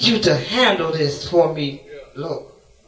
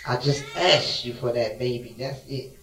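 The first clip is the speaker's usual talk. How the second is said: tearful plea; 8 semitones lower, 9 dB quieter than usual. Acted. Grieving mother's plea.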